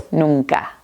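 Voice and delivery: NUNCA with its second N softened to "nung-ka"; N adouci. Shown as a demonstration. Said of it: "el sonido es más nasal".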